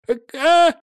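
air escaping squeak. A narrator's reading. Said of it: "вырвалось у него из разинутого рта".

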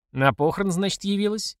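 needling question, lifting high at the end; snide. A narrator's reading. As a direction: ask it with a sarcastic jab. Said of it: "язвительно поинтересовался Славка". (язвительно)

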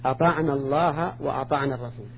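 "أطعنا الله" run together as ata'nallah; alif elided in joining. Shown as a demonstration. Teacher showing students elision, "أطعنا" joined without its long alif. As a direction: join "أطعنا" to the next word with a short vowel. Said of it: "نحذف الألف".

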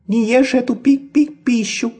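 high slow squeaky warning; peeping baby chick. A narrator's reading. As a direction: peep urgently like a chick. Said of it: "пропищала она".

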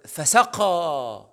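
فسقى stretched very slowly; drawn-out فسقى. Shown as a demonstration. Teacher demonstrating a word's stress, very slow. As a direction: drag out فسقى syllable by syllable. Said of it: "حد يقولها كده؟".

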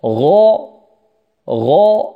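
غ- sounded alone, dark and full; heavy ghayn. Shown as a demonstration. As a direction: isolate a thick "gho" for غ-. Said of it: "الغين مفخمة". (نطق غ- مفخمة)

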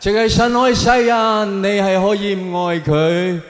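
imitating the pope. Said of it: "佢話".

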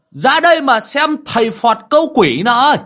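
high, loud call to come and look; shouting out. Acted. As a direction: yell for the neighbours to come see. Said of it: "ra ngoài hô".

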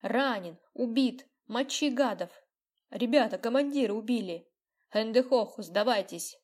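loud excited battle cries; battle shouting. Acted. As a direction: yell across the yard. Kids shout in battle game.

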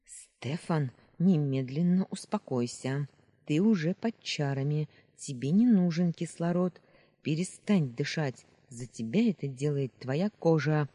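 steady commanding voice; firm urgent command. Acted. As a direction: Luna ordering Stefan to calm down, firm and loud. Luna commands him to stop breathing.

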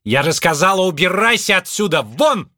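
громкий высокий злой крик; выгнать криком. A narrator's reading. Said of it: "закричала она". (Мардж кричит на двадцать два, прогоняя)

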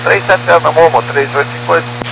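tinny radio transmission voice; crackly cockpit radio readback; pilot over the radio. Real, not acted. Pilot reading back over radio.

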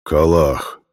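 a bear insisting on one word; insistent bear. A narrator's reading. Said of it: "повторил медведь".

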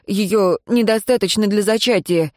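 nervous report to the master; hesitant servant. Acted. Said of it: "тихо проговорил второй голос".

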